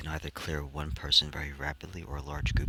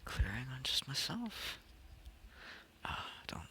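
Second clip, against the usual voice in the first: whispering; 10 semitones higher, 10 dB quieter than usual. Real, not acted. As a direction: whisper it so nobody hears. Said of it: "Forgot that we have to whisper".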